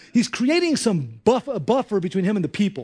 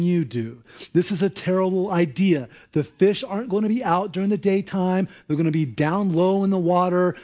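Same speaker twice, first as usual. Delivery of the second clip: grumbling Peter. Retold or imitated. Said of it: "you can almost hear him thinking this".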